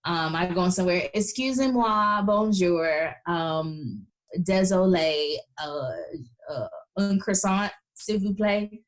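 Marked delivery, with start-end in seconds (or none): 1.1-8.8 put-on beginner French with a heavy American accent. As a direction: order a croissant in clumsy American-accented French. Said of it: "not a French accent to be seen".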